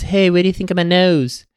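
high-pitched pop star impression; mock celebrity voice, held high; a singer. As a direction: put on a high voice to ask friends' approval. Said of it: "he said to his guys".

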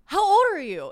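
high, loud acted disbelief; shocked demand. Woman confronting guest who lied about age, loud shocked demand. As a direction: blurt the question, high and loud.

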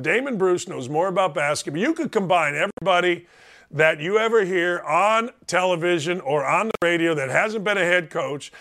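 ordinary delivery

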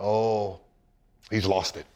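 dismissive critics. Retold or imitated. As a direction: shake your head at him, low and soft. Imitating critics' dismissive comments.

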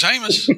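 Hamas said as "Aymus", long ay, no h; hillbilly pronunciation. Pretend. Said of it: "That's a nickname we use".

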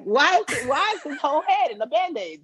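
put-on high, incredulous Nigerian-accented question. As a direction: act a baffled Nigerian film character. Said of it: "when you bring in the Nigerian accent".

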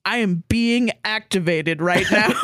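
slow, laughing through the words; half-laughing mock panic; laughing mock alarm. Turning to Josh while playing The Sims, laughing mock alarm. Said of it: "and I'm like".

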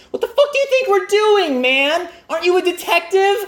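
high, incredulous outburst at the cop; exasperated outburst. Retold or imitated. Teens scoffing at the sheriff in their heads, exasperated. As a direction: let the disbelief burst out, pitched well up. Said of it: "That's what we thought".

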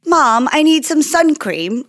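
a hint of a kid asking mom; lightly voiced daughter. Retelling her daughter's request to mom, lightly voiced child. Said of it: "but now she's like".

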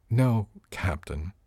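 slow "No, Captain", weighting the title; emphasis on CAPTAIN. A narrator's reading. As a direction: set "Captain" apart with pointed emphasis. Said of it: "She gave the title special emphasis".

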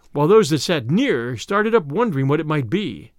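measured storybook reading; story narration. A narrator's reading. Narrator tells listeners of Robin Hood's woodland feast, measured storytelling. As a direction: narrate the old tale with rolling phrasing.

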